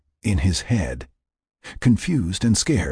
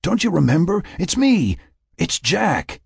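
high pleading voice in the head; whispery telepathic voice; 11 semitones higher than usual. Acted. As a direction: plead gently from inside his mind. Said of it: "the voice continued".

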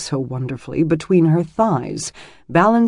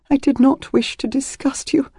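whisper; 10 semitones higher than usual. A narrator's reading. Shamed confession in bath.

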